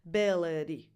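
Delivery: beleri ending in a tense E; tense final E. Shown as a demonstration. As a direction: finish beleri on a tense long E. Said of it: "tense E at the end".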